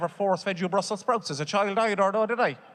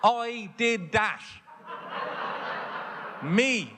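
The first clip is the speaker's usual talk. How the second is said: dawning guilt; 5 semitones higher, much slower than usual. Real, not acted. Guilty realisation, slow and high.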